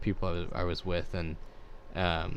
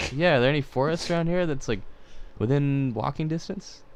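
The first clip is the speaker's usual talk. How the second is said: backpacker voice; 6 semitones higher than usual. Retold or imitated. Backpacker repeats his question.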